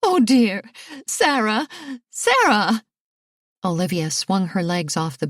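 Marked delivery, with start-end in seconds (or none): 0.0-2.8 a mother calling after her fleeing daughter; higher anxious calling; mother crying out. A narrator's reading. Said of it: "That was her mother's voice".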